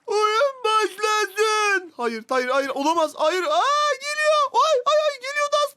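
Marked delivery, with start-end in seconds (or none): 0.1-1.9 drawn-out, booming game-show opening; slow announcer call. Acted. Host announcing the start of the challenge, slow and booming.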